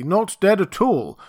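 emphatic denial; said slowly. Acted. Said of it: "he said slowly".

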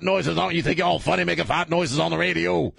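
high-pitched, chanting sermon rant; hammed-up preacher tirade; radio preacher. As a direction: scold a sinner, building to revival fervor. Preacher impression scolding the co-host.

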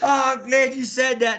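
high, delighted gush; thrilled to be asked. Retold or imitated. Young wrestlers delighted by the photo request. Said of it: "And they go".

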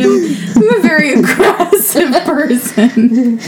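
ordinary talk, nothing marked

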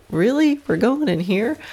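horse voiced. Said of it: "She was just like".

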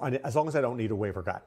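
talking through hiccups; words broken by hiccups. Real, not acted. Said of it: "I'm having hiccups".

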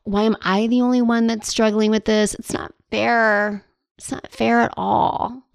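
lightly hammed-up whining; whiny complaint. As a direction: sulk like it is all unfair.

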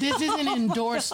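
slow, laughing through the disclaimer. Real, not acted. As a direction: giggle while saying it.

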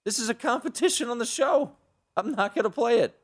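high defiant insistence; stubborn, mock-righteous refusal. Real, not acted.

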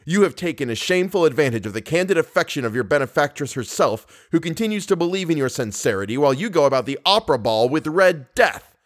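heated, hurt tirade with pitch leaping up; childish hatred. Acted. Betrayed lover insulting Christine, with childish hatred. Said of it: "in accents of childish hatred".

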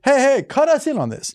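high demanding mock voice; mock company voice. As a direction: play the greedy brand. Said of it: "Gushers are like".

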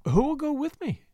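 inquiring. A narrator's reading. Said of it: "she inquired".

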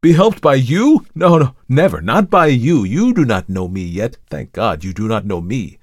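loud, high refusal that comes down in pitch; vehement cry. A narrator's reading. Markheim refuses the visitor's help, vehement cry. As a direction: recoil and reject it forcefully. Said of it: "cried Markheim".

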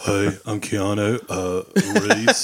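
slow, low fake British accent; bad British accent. Podcaster mocking the actor in Dracula, bad British accent. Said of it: "in Dracula with a British accent".

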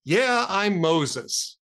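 very slow, resigned admission; weary sigh. Retold or imitated. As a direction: give in with a tired, drawn-out sigh. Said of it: "the guy sighs and he says".

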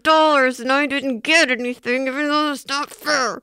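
forced cheerful congratulations; fake-nice, through a smile; fake happy. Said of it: "what my face would be saying would be".

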